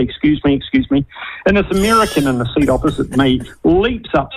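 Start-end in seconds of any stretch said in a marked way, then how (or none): 0.0-1.0 gentle, polite. Retold or imitated. Father trying to make his way forward, gently. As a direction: imitate someone politely asking to get past. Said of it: "he's just gently".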